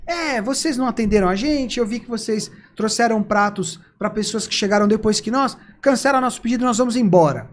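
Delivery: mild mock indignation; imitated upset customers. Forgotten café customers cancelling their order, upset complaint. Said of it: "vieram muito chateadas".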